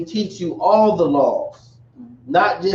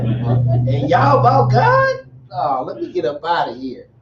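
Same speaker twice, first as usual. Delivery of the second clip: mock disbelief. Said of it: "I'm like".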